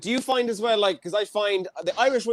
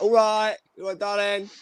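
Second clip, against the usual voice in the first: lilting British "darling" patter; flirty British chat-up accent; 3 semitones higher than usual. Acted. Co-host imitating how locals flirt, playful British accent. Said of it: "you're like".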